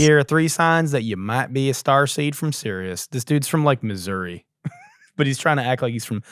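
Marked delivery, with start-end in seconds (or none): 0.0-3.1 put-on Southern accent. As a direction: lay on a Southern accent to mock the guru. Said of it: "hide his Southern accent. Listen".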